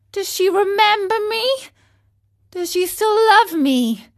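eager, breathless questions, high and loud; tumbling questions. Acted. Pinocchio begs the snail for news, urgently. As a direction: rush each question out in hope. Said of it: "all these questions, tumbling out one after another".

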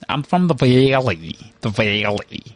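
slow, drawling Valley girl impression; Valley girl accent. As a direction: drag out each vowel like a Valley girl. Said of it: "there's the Valley girls".

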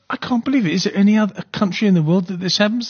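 can't believe what she saw; stunned disbelief. Real, not acted. Host aghast at hijacking footage, disbelieving cry. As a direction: voice jumps up high in disbelief. Host reacting to murder video.

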